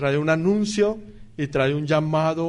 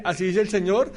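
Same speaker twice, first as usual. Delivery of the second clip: offhand false prophet. Retold or imitated. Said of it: "cuando el falso profeta dice".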